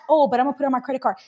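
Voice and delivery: very fast comeback from the little devil; tempting inner voice. Acted. Little devil answering conscience about cash, hurried excuse. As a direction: rattle off the excuse, lightly acted. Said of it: "constant back and forth".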